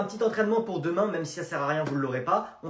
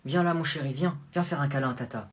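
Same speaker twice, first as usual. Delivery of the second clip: tender aunt; 3 semitones lower, 4 dB quieter than usual. Acted. Tante appelle l'enfant pour un câlin.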